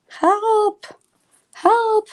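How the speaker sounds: high storybook cry for help; calling for help. Acted. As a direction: call out to the men outside. Little Red calls for help.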